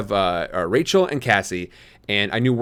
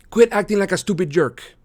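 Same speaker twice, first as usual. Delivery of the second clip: Marco annoyed; 8 semitones higher than usual. A narrator's reading. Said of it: "he said".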